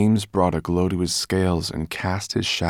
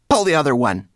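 higher, loud and sarcastic; scoffing rat; 8 semitones higher, 7 dB louder, faster than usual. A narrator's reading.

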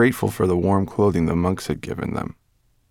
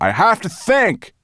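slow, raised-voice insistence; called back; 13 semitones higher, 4 dB louder than usual. A narrator's reading. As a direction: call it out slowly and higher. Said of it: "Firedrake called back to her".

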